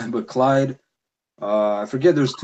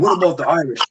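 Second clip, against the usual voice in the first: mocking the Irish guy. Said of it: "he's like".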